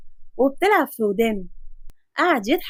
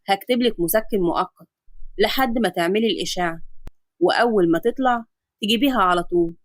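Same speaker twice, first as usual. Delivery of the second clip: a lower, steady doctor's voice; calm doctor; 3 semitones lower than usual. Acted. Adam explaining the X-ray to his patient, calm lower doctor voice. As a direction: reassure the patient like a calm physician.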